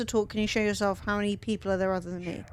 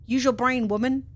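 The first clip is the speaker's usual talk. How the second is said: exasperated; 3 semitones higher, 4 dB louder than usual. Real, not acted. Scolding co-player.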